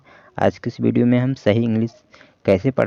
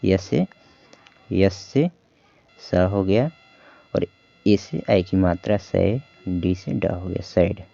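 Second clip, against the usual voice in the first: slow sounding out; slower than usual. Shown as a demonstration. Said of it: "देखिए सैड".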